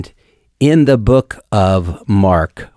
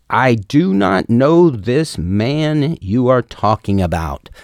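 swearing denial; 4 semitones higher, slower than usual. Retold or imitated. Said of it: "he began to curse and swear".

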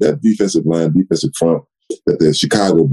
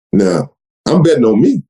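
normal talking voice

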